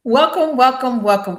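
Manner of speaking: high, drawn-out show-opening greeting; gushing welcome. Real, not acted. Host greets viewers after waiting all week, gushing welcome. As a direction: sing it out high, stretching the words.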